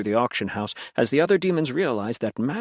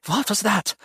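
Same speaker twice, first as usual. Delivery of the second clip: demanding; 8 semitones higher than usual. A narrator's reading. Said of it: "Mattis demanded".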